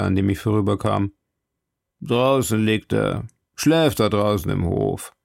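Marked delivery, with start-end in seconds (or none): 2.0-5.2 lightly voiced warder. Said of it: "sagte ein anderer Wärter".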